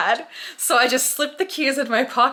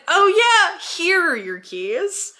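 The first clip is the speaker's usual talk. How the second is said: mock sudden recall; 9 semitones higher, slower than usual. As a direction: feign remembering, starting high and easing off. Mock sudden recall, handing keys over.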